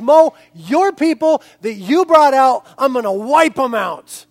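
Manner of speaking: God disowning. Acted. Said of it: "And now the Lord says".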